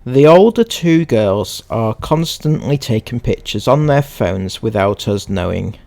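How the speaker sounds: measured, emphatic reading voice; read-aloud. Acted. Reading someone's post to viewers, read-aloud.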